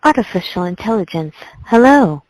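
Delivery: monotone robotic voice; flat machine-like delivery. Shown as a demonstration. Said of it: "do a little bit more. Let me hear".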